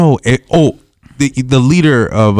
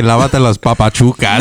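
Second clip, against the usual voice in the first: mock shouting neighbor. Neighbor yelling at him to wash his feet, mock shout. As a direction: bark it out like the nagging neighbor. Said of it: "my fucking stupid ass neighbor would always say".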